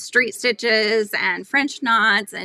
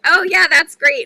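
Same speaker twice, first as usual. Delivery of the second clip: mock enthusiasm; 7 semitones higher, 10 dB louder than usual. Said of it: "I'm like".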